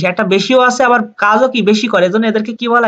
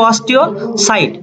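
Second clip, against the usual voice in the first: "অস্টিওসাইট" drawn out slowly, syllable by syllable; slow down on "অস্টিওসাইট" for the class to repeat; slow drill; much slower than usual. Shown as a demonstration. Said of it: "বোনের সেলকে কি বলে?". (ধীরে ধীরে টেনে উচ্চারণ)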